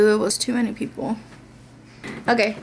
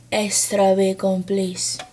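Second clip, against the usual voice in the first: put-on Spanish accent; 4 semitones lower, slower than usual. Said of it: "I said extra bacon in a Spanish accent".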